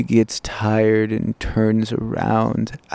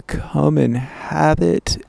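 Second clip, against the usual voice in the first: slow, higher-pitched retold enticement; slow, alluring lilt; alluring invitation; 5 semitones higher, slower than usual. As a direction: lightly imitate a beckoning invitation, drawn out. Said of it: "and so alluring".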